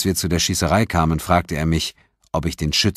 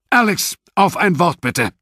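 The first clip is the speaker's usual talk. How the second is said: summoning call; 13 semitones higher, 6 dB louder than usual. Acted. Senior officer summons Sewell.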